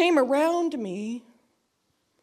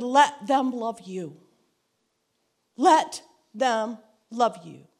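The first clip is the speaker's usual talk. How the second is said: slow, gentle repeated plea; gentle urging; slower than usual. Retold or imitated. Friend's advice repeated slowly.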